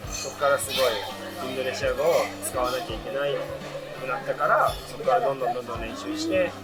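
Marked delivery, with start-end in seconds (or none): none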